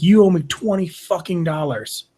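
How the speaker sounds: slow, menacing demand; lightly voiced angry Dane, drawn out; imitating Dane. Dane demanding money, slow far voice.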